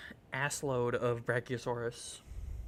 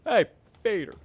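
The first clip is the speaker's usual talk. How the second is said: calling out; 4 semitones higher than usual. Acted. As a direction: shout the name to get attention. Calling out to Peter.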